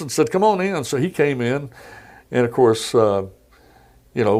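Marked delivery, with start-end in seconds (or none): 0.3-0.8 a raised, breezy folksy president voice, lightly done; casually calling into the room, mock Southern ease; imitating Clinton. Reporter retelling Clinton popping his head in, light impression.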